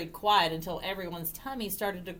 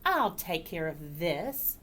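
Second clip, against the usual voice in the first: cat character; 3 semitones lower, 4 dB quieter, slower than usual. Acted. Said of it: "said the cat".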